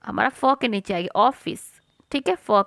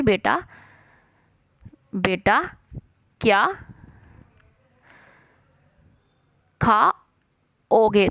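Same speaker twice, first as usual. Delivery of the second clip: slow dictation; much slower than usual. Shown as a demonstration. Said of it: "teacher dictating dialogue slowly".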